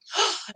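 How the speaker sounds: mock gasp. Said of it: "looking at me like".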